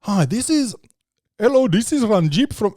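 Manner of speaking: lightly voiced scripted phone agent; mock telemarketer. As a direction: imitate an overseas call-centre caller. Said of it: "I just like".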